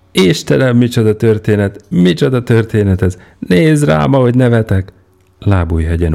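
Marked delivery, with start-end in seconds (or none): 0.1-4.9 high, loud and carried away; overjoyed outburst; giddy exclaiming. Acted. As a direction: gasp it out through laughter. Peter doubled over with laughter.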